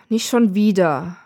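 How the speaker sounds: slow, fed-up groan. Acted. Death groaning as the alarm goes off again. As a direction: drag it out like a weary groan. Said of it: "stöhnt der Tod".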